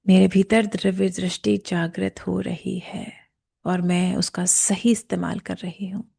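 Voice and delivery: slow, measured affirmation; guided affirmation. Shown as a demonstration. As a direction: state it slowly and deliberately, phrase by phrase. Leads a spoken affirmation.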